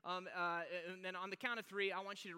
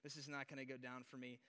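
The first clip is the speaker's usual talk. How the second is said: resigned dread; 7 semitones lower, 10 dB quieter than usual. Retold or imitated. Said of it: "you're like".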